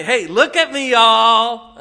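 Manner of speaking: high, loud attention-seeking holler; hammed-up shout for everyone's attention, last word drawn out; mock show-off. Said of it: "I'm not doing it to say".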